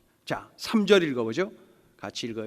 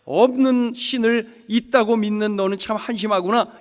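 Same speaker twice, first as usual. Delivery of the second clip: raised-voice taunt, lightly acted; mocking; 4 semitones higher, 5 dB louder than usual. Foreigners scorning the captive poet, mocking. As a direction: scoff at a believer's faith. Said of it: "이렇게 조롱하는 거예요".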